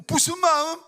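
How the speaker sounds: sudden high, startled question; surprised. Retold or imitated. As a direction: blurt it out in surprise. Father surprised, asks daughter. (깜짝 놀라 높게 되묻는 아빠)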